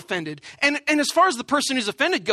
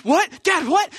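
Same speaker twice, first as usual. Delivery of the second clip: put-on confused kids; 7 semitones higher, slower than usual. Kids confused by dad's rush.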